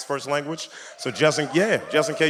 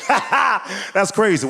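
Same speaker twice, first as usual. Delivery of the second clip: higher, chirpy fake laugh and interest; mock fake interest; 6 semitones higher, 3 dB louder, slower than usual. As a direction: pretend to care while stealing jokes. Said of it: "and I'm like".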